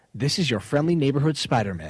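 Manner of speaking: fake, put-on American accent. An English speaker repeats a line in a put-on American accent. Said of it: "an English person sounds speaking American".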